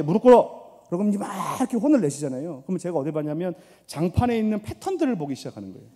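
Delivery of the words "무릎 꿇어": higher, louder scolding command; mother's shout. Retold or imitated. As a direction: bark it like an angry mom. Mother scolding child kneel.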